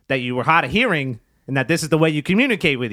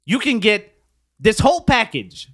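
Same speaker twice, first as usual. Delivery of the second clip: infomercial; 3 semitones higher than usual. Pretend. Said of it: "was that another pitch".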